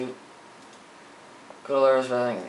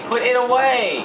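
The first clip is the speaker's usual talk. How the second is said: sharp loud shout, higher, ending hard on away; 9 semitones higher, 5 dB louder than usual. Real, not acted. Gamer screaming at his character to sheathe, loud shout. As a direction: bark the order louder and quicker.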